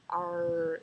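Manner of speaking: "R" with a long rolled-back R sound; emphasized R. Shown as a demonstration. Vlogger showing her heavy southern R. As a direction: lean hard on the R in "R". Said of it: "really put emphasis on my R's".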